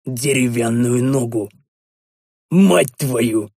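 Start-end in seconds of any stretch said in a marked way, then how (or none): 2.5-3.5 startled bark. Acted. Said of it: "изумлённо рявкнул я".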